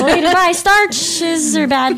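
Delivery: mock warning, giggling all the way; laughing. Real, not acted. Co-host jokes about starches while laughing, slow and high. Joking sign-off banter.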